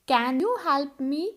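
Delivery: calm drawn-out repeat; teacher repeating for students; slow model question. Shown as a demonstration. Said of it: "वहाँ पे आप can के साथ sentence शुरू करोगे।". (धीमा दोहराया सवाल)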